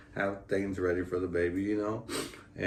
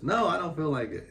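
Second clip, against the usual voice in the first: mock weary refusal; 9 semitones higher than usual. Jess refusing, last and highest.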